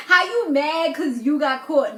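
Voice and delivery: loud, laughing jab; mock him through laughter; laughing mockery. Vlogger mocking Kurt for getting caught, loud laughing jab.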